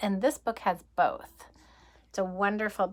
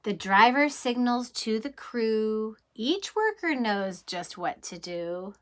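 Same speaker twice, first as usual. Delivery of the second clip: lively rhythmic storybook read; reading to children. Acted. Teacher reading a train book to kids, lively storybook voice. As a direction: read the rhyme like a bedtime adventure.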